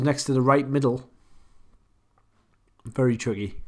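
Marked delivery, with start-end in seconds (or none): 2.8-3.6 said through a yawn. Real, not acted. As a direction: yawn while speaking. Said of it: "Excuse me for yawning".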